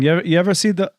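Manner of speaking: South African drifting into Irish; South African accent attempt. Shown as a demonstration. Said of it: "I'm doing Irish now".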